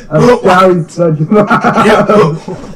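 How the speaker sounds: slow, sad apology; depressed voice. Acted. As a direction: drag it out sorrowfully. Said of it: "spoke in a very depressed voice".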